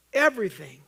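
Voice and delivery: "Everything" called out loud and firm; loud, ringing "Everything"; loud repetition. Shown as a demonstration. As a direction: throw "Everything" out over the congregation. Repeats the word, loud then soft.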